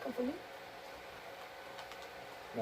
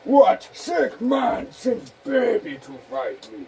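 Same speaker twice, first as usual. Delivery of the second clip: slow, higher, outraged put-on voice; mock indignant voice; 5 semitones higher, 3 dB louder, slower than usual. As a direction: complain in a hammy outraged voice.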